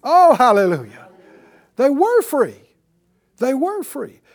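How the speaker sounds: loud, high preacher's cry; preaching at full force. Acted. Preacher calling the church to shout it back, loud and high. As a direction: rouse the congregation with each line.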